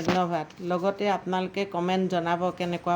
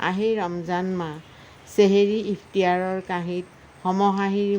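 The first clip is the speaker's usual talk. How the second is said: measured verse with lifted line openings; poem recitation. Acted. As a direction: recite line by line, pausing after each phrase. Recites own Ramadan poem.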